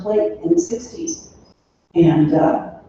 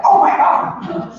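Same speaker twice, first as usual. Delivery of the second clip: breathy, stunned 'Oh my God', slow and higher; mock stunned gasp; 13 semitones higher, 4 dB louder, much slower than usual. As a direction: act floored by a gorgeous mom. Blind dates seeing her mom.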